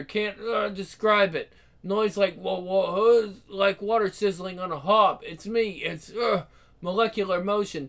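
stammering, frightened, broken phrases; delirious rambling. Acted. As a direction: fight through terror, words falling apart. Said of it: "He's delirious, rambling".

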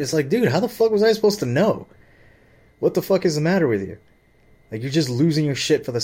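venting, voice rising in disbelief; exasperated. Real, not acted. To the listener about his foreman, an exasperated near-shout.

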